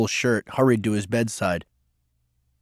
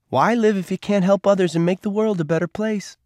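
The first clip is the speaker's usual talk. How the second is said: higher woman's voice, sincere and bright with conviction; a hint of a young woman, earnest; Rosie, earnest; 9 semitones higher than usual. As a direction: speak it as a belief she lives by.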